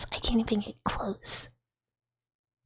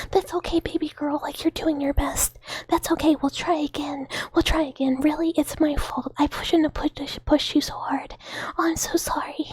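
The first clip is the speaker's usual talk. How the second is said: tender comforting; 3 semitones higher than usual. Pretend. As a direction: soothe a losing racehorse like a baby. Consoling her losing game horse.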